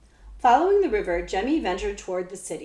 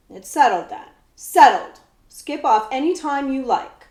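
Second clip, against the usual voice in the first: retort; 5 semitones higher, 8 dB louder than usual. Acted. Jemmy retorts to the prince.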